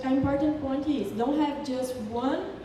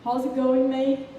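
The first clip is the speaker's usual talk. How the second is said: louder, casual Australian greeting; 5 dB louder than usual. Shown as a demonstration. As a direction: hail your mate with an Australian accent. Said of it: "they speak a lot of times mate".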